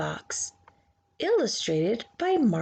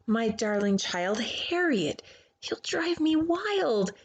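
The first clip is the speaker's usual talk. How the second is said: stern mother. Acted. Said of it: "so instead she said".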